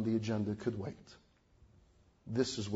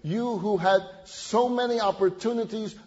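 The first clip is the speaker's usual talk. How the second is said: rising fervent appeal; 7 semitones higher, 6 dB louder than usual. Acted. Preacher urging the congregation, building to a loud fervent peak. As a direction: let each "You who" climb in passion. Sermon climax addressing congregation.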